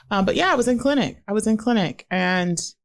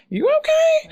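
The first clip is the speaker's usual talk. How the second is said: concerned; 3 dB louder than usual. Retold or imitated. Retold coworkers checking on sick colleague.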